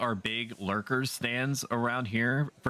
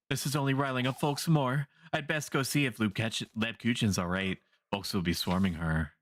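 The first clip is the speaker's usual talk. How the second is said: lightly voiced concerned villager. Voices a worried villager in the game.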